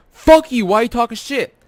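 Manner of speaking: high-pitched mock outburst; retold angry challenge. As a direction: imitate an indignant friend jumping in.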